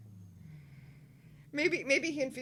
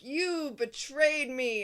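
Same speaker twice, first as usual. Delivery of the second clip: slow, dragged-out mock accusation; hammed-up outrage, each word stretched; mock yell; 4 semitones higher, 4 dB louder, much slower than usual. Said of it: "go yell at the seer".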